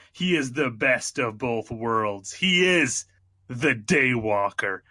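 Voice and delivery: dramatic movie trailer narration; booming trailer voice-over; announcer voice. Shown as a demonstration. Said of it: "Let me get my announcer voice".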